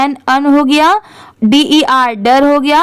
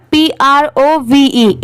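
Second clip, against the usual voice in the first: spelling out slowly; slower than usual. Shown as a demonstration. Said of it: "इसे क्या पढ़ते हैं?".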